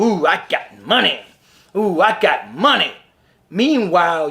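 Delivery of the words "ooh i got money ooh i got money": smug bragging, lightly mocked; half-hearted mock brag; mock gloating. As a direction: flash the cash like a show-off. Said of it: "Just so you can gloat and show".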